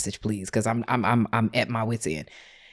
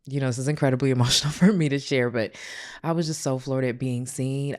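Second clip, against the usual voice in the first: voice cracking. Real, not acted. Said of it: "forgive my voice for cracking up".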